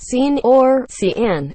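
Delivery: SEAN said as "seen", CIAN as "see-an"; mock misreadings of Sean and Cian; mispronounced name. Telling how people misread their name, spelled-out mispronunciation. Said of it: "People tend to say my name is".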